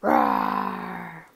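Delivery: deep growling lion roar, drawn out. A narrator's reading. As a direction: let out a big beastly roar. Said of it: "he hears a magnificent roar".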